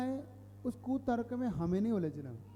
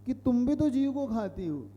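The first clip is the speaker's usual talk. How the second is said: opponent's challenge; 2 semitones higher, 4 dB louder than usual. Retold or imitated. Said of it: "अब वो कह रहा है".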